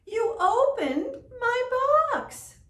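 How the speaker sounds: high, loud angry cry; angry shout. Acted. Sky Chief shouts angrily at Baby Raven. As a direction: roar at the child. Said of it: "was angry".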